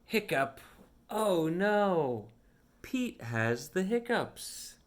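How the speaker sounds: lively storybook read with voiced characters; reading to children. Reading a picture book aloud to a young child, animated storytime voice. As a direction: read it like storytime for a little one.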